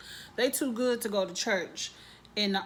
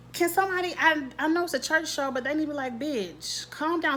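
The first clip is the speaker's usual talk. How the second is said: exasperated high outburst; 6 semitones higher than usual. Real, not acted. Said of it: "outburst at show".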